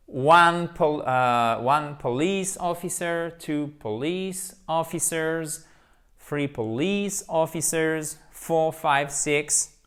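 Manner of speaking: one police officer, two police officers said slowly, police stressed; slow counting drill. Shown as a demonstration. Teacher counting police officers slowly for the students. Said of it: "Accent tonique ici".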